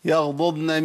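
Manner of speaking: both Dads of يغضضن sounded, the first voweled, the second still; ضاد مبينة. Shown as a demonstration. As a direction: say يغضضن keeping each ض distinct. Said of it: "أبين الفرق بينهم".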